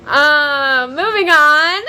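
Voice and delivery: loud laugh-cry moving on. Real, not acted. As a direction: laugh through the feelings. Laughing off emotion.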